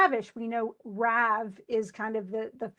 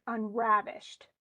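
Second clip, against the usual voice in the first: unravished said slowly with RAV drawn out; stress on RAV; slower than usual. Shown as a demonstration. Teacher quizzing student, unravished slowly with stress on RAV. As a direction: let RAV carry the weight in unravished. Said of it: "Where is the stress in that word".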